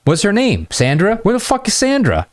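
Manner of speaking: high-pitched, hammed-up "where is she"; squeaking upward in mock outrage; mock incredulous demand. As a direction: demand the friend in playful disbelief. Acting out mock demand for missing friend.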